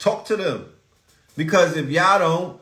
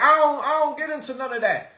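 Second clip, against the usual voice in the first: higher, fast, dismissive mock voice; mock denial; 10 semitones higher, faster than usual. Host mimicking a viewer who denies being programmed, mock-dismissive. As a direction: toss it off like a smug doubter. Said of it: "So you might be like".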